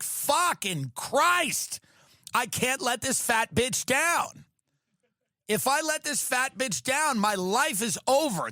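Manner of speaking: put-on anxious dancer kid muttering under pressure; panicked kid. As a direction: play a terrified child before the routine. Imagined Dance Mom kid panic.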